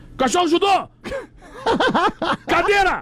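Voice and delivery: sharp shouted delivery.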